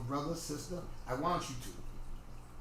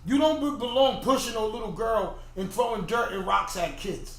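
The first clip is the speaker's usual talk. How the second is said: raised-voice telling-off; mock lecture, louder at the start; acted parental scolding; 2 semitones higher, 4 dB louder than usual. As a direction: scold a big kid as a parent would.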